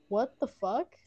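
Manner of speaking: indignant question in a country accent. Real, not acted. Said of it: "Says it in a country accent".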